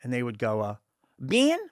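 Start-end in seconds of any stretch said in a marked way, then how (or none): 1.2-1.6 Southern "Ben". Retold or imitated. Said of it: "they would say the E's were different".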